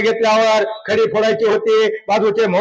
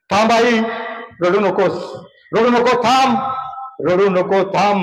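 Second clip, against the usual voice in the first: firm comfort. Retold or imitated. Boy telling his crying mother to stop, firmly. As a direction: reassure her with resolve. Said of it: "म्हणला".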